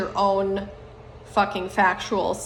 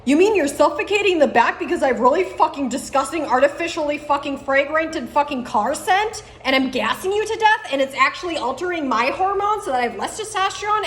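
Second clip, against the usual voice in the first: mocking impression of people; 5 semitones higher than usual. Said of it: "they're like".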